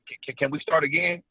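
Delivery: imitating a thrown-off actor stumbling; retold hesitant request to restart; flustered stammer. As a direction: stutter the first word, mildly rattled. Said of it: "threw him off to where he forgot his lines".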